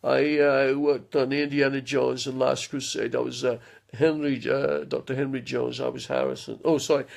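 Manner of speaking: Scottish film-star impression with halting pauses; Sean Connery. Showing viewers his film-star impression, halting Scottish voice. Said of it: "my Sean Connery is, uh, pretty, uh, good".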